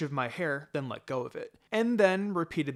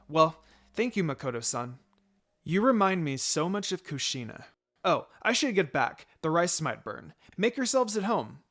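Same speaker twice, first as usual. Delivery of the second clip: kind mother; 3 semitones higher, 4 dB louder than usual. Acted. Kind mother welcoming guests.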